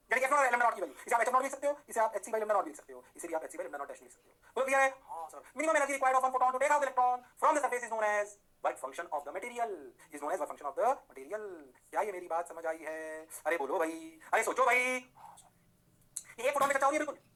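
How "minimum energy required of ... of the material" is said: slow note-taking read-out of a definition; slow dictation. Acted. Teacher dictating a definition to the class, slowly and evenly. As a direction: spell it out slowly for students to write.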